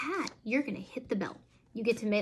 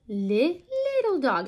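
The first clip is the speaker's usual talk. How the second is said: "little dog" said higher and louder, small and squeaky; 5 semitones higher, 5 dB louder, slower than usual. Shown as a demonstration. Mom showing how to voice "little dog" against "big dog", high and small. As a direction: make "little dog" sound tiny and high. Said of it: "change the inflection of my voice to try to show".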